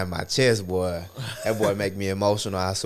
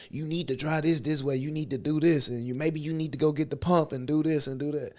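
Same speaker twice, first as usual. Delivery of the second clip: higher, lecturing his wife with bossy impatience; bossy know-it-all; 8 semitones higher than usual. Retold or imitated. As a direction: imitate his old pushy self. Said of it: "Just being an asshole".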